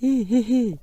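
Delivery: a bright little laugh on É. Shown as a demonstration. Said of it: "Et le son, et".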